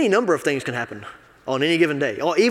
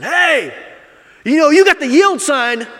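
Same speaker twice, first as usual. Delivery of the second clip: loud, higher angry reproach out the car window; angry call-out; 11 semitones higher, 9 dB louder, slower than usual. Retold or imitated. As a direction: yell it at the driver who cut you off. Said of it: "and I said".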